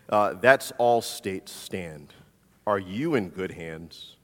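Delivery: slow, unhurried announcer read; a light imitation of a baritone ad voice, drawn out; Dennis Haysbert impression. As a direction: lean into a smooth, slow commercial-closer delivery. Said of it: "he has got this incredible baritone voice".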